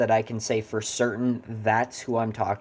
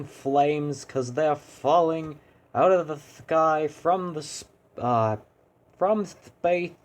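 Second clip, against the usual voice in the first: lightly raised, slow, sing-song complaint; a half-landed, slightly raised sing-song; cheery hero voice; 4 semitones higher, slower than usual. Acted. Hero complains to the boss about fireballs, lightly voiced. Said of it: "no, I can't get it".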